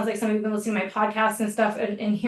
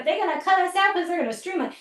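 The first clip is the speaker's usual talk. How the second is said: mock worried; 7 semitones higher, faster than usual. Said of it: "We don't just go".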